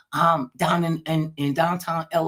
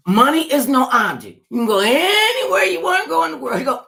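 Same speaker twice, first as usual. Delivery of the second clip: grand offer; 10 semitones higher, 8 dB louder than usual. Real, not acted.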